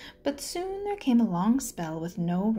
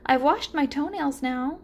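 eager turtle; 6 semitones higher, 4 dB louder than usual. Acted. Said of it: "said Turtle".

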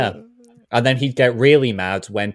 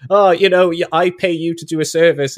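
high, loud complaining client; whiny customer; 7 semitones higher, 7 dB louder than usual. Retold or imitated. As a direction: whine like an entitled customer. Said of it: "the guy is just like".

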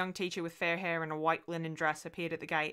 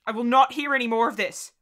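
loud, higher angry shout; 6 semitones higher, 11 dB louder than usual. A narrator's reading. Mother shouts at her little girl, loud and high. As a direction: shout her down, hating the anger. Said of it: "I shouted".

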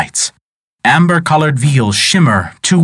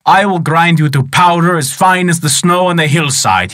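higher, mock-roaring threat; a giant wizard bellowing a threat, half-hearted; hammed-up roar; 5 semitones higher than usual. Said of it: "he roared".

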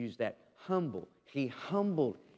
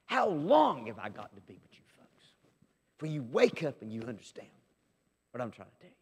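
frustrated Jesus. Acted. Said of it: "you see Jesus every once in a while just getting really frustrated".

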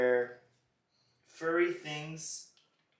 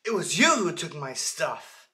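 playful accusation; 10 dB louder than usual. Pretend. Dad playfully accusing kids.

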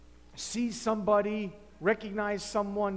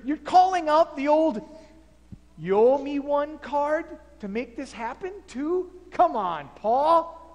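indignant complaint; 3 semitones higher than usual. Acted. Philemon argues with Paul.

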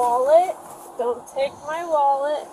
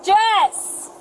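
screaming; 5 semitones higher, 3 dB louder than usual. Real, not acted. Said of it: "Stop screaming".

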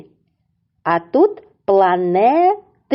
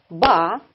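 Ба-ра-бан split into separate beats; syllable by syllable; faster than usual. Shown as a demonstration. Teacher claps Ба-ра-бан for the kids, syllable by syllable. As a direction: clap out Ба-ра-бан one syllable at a time. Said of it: "На прикладі барабан".

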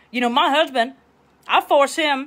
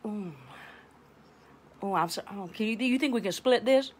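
mock sheepish date; 3 semitones lower, 10 dB quieter than usual. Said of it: "and they go".

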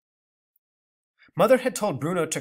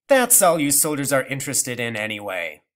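scornful; 6 dB louder than usual. Acted. Grandmother scornful.

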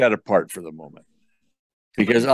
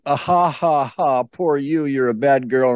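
imitated taunting cackle, pitched up a little; mocking laugh; 2 semitones higher than usual. Therapist voices the grandmother laughing at the client, mock gloating. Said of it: "your grandmother is laughing at you".

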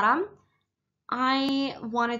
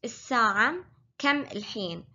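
الساعة كم الحين said slower and separated; slower repeat; much faster than usual. Shown as a demonstration. Teacher slowing the line for learners. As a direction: break the question into clear words. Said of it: "repeat for learners".

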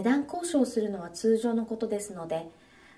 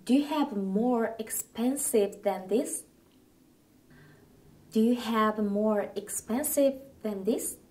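slow model sentence; slower than usual. Shown as a demonstration. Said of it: "文章で発音してみましょう".

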